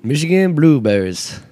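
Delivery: a light mock Michigan accent reading ad copy. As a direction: read the blueberry ad in a faint Michigan accent. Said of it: "the best Michigan accent I've ever heard".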